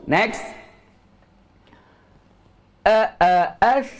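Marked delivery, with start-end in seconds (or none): 2.9-3.9 "A, a, as" ending in a free, breathy s with the voice released; airy as. Shown as a demonstration. Teacher drills students on letting the voice escape. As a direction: let the breath flow out on "as". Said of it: "Terlepas suara".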